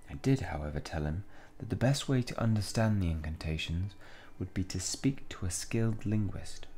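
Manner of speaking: soft, measured shopkeeper reading. Acted. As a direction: recount it quietly in character. Reads shopkeeper's game dialogue.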